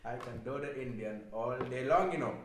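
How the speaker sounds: lightly put-on Indian accent. Boasting to co-host about the impression, Indian accent. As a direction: keep up a mock Indian accent. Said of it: "Can you do Indian?".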